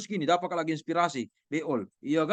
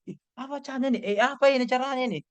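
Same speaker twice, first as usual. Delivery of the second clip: confused reader; 6 semitones higher, faster than usual. Retold or imitated. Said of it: "Tetapi kalau ini".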